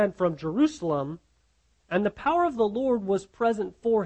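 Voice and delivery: measured, emphatic Bible reading; scripture reading. Acted. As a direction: read the passage aloud, phrase by phrase. Reads the passage aloud.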